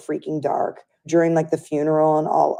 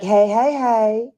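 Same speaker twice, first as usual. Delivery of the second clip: imitating a sing-song hello, pitched up; melodic greeting; 6 semitones higher, 4 dB louder, much slower than usual. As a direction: stretch each hey into a lilting greeting. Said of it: "her voice had a melody".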